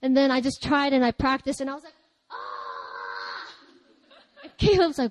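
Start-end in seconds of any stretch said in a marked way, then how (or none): 2.3-3.6 a hushed replay of a desperate cry; half-voiced memory of a wild cry; retold desperate cry. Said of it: "It was my sound of desperation".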